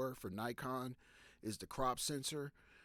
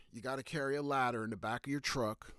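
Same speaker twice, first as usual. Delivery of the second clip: "truck" leaned on at the end, louder; stress on truck; 5 dB louder than usual. Real, not acted. Photographer telling viewers what gear to carry, stress on "truck". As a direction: land firmly on the final word "truck". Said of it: "I emphasize the word truck".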